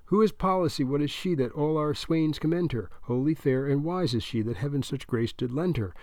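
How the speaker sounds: measured verse recital at normal speed; dutiful recitation of a memorized poem; group recitation. A narrator's reading. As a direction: recite the poem like a drilled squad. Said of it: "They speak in one voice".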